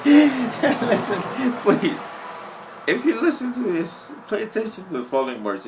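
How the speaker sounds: loud, high, laughing plea; urgent call. Real, not acted. To his viewers, loudly demanding they listen. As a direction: grab the viewer's attention.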